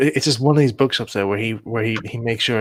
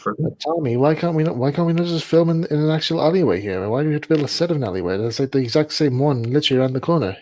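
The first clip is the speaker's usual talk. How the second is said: pitched-up, incredulous complaint; imitated exasperation; 5 semitones higher than usual. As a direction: act out a baffled crew member pleading with the director. Voices crew questioning Tommy's odd decision.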